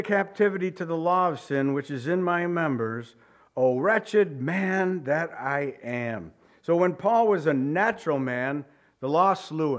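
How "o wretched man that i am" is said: slow lament. Acted. Paul's lament voiced slowly.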